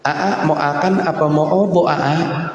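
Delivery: put-on "mau akan apa mau obo" with childish lisped sounds; lisping baby talk. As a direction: lisp "obo" like a spoiled wife. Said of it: "gini cadel-cadelin". (bicara cadel manja)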